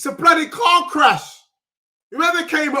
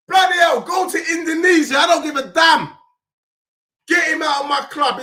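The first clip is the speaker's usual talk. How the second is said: loud, higher, hammering rant; furious shout; 4 semitones higher, 3 dB louder than usual. Real, not acted. Fan raging at a player he wants gone, shouting. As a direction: yell him out of the club.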